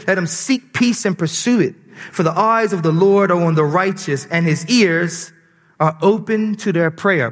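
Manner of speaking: solemn Bible reading; scripture reading. Acted. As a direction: read the passage with weight. Reads scripture aloud.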